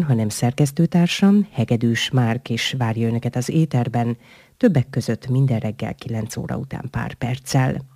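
formal presenter reading out closing credits; radio sign-off. Acted. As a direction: close the programme politely for the listeners. Host reads the radio sign-off. (rádiós műsorvezetői elköszönés)

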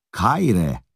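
a friendly Greek hello with a smile; smiling greeting. A narrator's reading. A Hun man smiling as he greets Priszkosz. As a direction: greet him warmly, as if meeting a countryman. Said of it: "reá mosolyog Priszkoszra".

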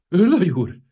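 high, loud breathless gasp; a hint of breathless outrage. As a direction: choke out the words in shock. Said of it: "mondta a miniszter elfulladva".

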